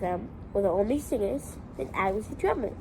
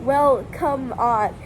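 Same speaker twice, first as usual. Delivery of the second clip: slow dragged; 5 dB louder, much slower than usual. Retold or imitated. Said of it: "they went".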